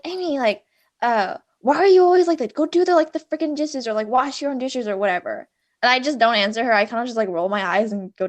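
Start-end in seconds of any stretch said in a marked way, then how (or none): 0.1-5.5 higher, louder mock mom scolding; imitating mom nagging. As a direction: nag like an annoyed mom. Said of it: "she's like".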